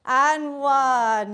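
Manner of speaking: counting down loud and punchy; energetic countdown. Real, not acted. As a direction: call each number out to push them on. Calling out final countdown.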